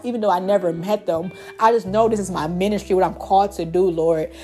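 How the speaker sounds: earnest spoken prayer with a Lord or God after each plea; fervent closing prayer for the women listening; heartfelt prayer. Acted. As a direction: pray over the listener, pleading and grateful.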